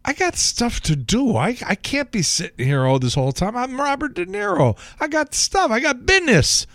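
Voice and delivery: high, impatient De Niro voice; Robert De Niro impression. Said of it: "he's sitting there thinking".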